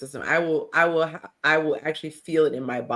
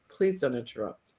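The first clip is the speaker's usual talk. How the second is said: calm request; 6 semitones lower, 7 dB quieter than usual. Shown as a demonstration. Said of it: "by being able to say".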